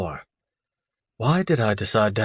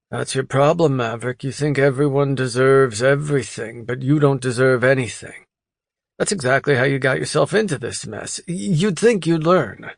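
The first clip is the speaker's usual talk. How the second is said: higher, needling buddy voice; scolding friend; 4 semitones higher than usual. Acted. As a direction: rib him like a smug friend. Kent scolds drunk friend.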